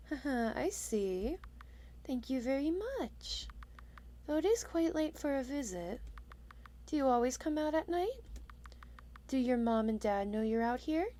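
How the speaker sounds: softly spoken kindly witch; a light hint of a lonely, kind witch; gentle witch. The witch greeting her surprise visitor, gentle.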